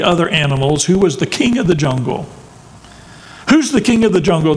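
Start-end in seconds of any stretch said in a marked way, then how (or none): 3.5-4.6 higher, fast mock roar; lion's roar. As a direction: boom it out like a proud lion. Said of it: "the lion roared at a monkey".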